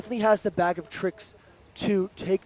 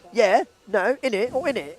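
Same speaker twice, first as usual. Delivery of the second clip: mock British accent; 3 semitones higher than usual. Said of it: "That's what you, you lot sound like".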